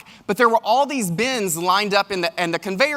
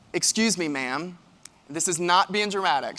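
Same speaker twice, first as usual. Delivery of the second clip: soft humble approach; 3 semitones lower, 7 dB quieter than usual. Retold or imitated. Approaching agent to apologize.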